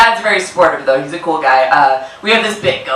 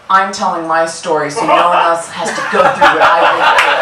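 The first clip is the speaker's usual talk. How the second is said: a touch of pious martyr reviewer; mock the noble tone of a one-star reviewer; self-righteous reviewer.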